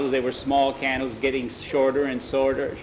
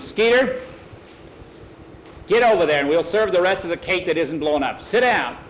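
firm command, raised on the name; stern order; 4 semitones higher, 3 dB louder than usual. Acted. Tom orders Skeeter back to the table, stern order. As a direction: call the name sharply, then order firmly.

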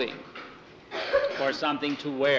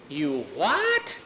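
laughing. Acted. Tom laughs at the news.

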